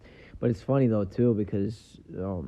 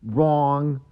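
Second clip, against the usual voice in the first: Joe Pesci; 5 semitones higher, 5 dB louder than usual. Retold or imitated. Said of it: "Just the way Joe Pesci is".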